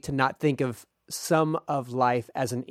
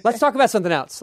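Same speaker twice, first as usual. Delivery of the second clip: higher, laughing deflection; laughing dodge; 7 semitones higher, 5 dB louder than usual. Real, not acted. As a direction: laugh it off and change the subject. Laughs off uncomfortable point.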